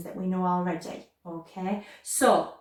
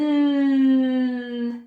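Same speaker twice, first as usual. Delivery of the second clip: long, louder droning hum; aeroplane hum; 3 semitones higher, 7 dB louder than usual. Shown as a demonstration. Teacher giving a clue to the song, aeroplane hum. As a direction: drone like an aeroplane on one held note. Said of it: "we sound like an aeroplane".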